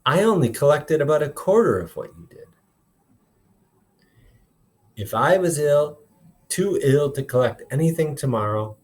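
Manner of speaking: expressive read-aloud, voicing each character lightly; storytelling voice for a classroom; story read aloud to class. A narrator's reading. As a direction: read the chapter to the kids, bringing the dialogue to life. Teacher reads novel aloud to class.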